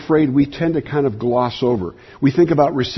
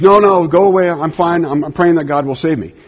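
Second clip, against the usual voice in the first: go away; 3 semitones higher, 3 dB louder than usual. Retold or imitated. Bob refusing the helicopter crew, loud dismissal. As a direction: wave them off with a shout. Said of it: "And he says".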